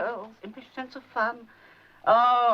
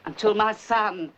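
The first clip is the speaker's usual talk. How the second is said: tender refusal; 4 semitones lower than usual. Retold or imitated. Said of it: "I said".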